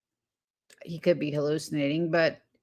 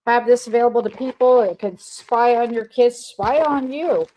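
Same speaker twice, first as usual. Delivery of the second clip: higher sneering voice, louder at the peaks; mocking company voice; 5 semitones higher, 4 dB louder than usual. Mocking the company that taunts the public, higher sneering voice. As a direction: ham up a smug tech boss gloating. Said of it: "They come out in your face and tell you".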